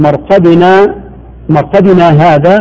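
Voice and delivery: مرقدنا هذا run together, slow and drawn; joined without pause. Shown as a demonstration. Showing the meaning if read without the pause. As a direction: say مرقدنا هذا with no stop between. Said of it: "ما الفرق بين الوقف والسكت".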